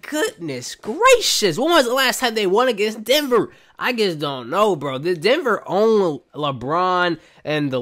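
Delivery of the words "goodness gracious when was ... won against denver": exasperated. Retold or imitated. Acts out own exasperated reaction.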